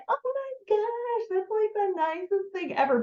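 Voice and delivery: very high, drawn-out mock squeal; imitated gushing delight. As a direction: gush like a thrilled gift recipient. Imitating delighted ladies receiving flowers.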